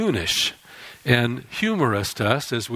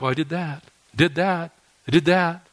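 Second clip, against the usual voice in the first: mock box-ticking; 4 semitones higher than usual. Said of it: "check 'em off like".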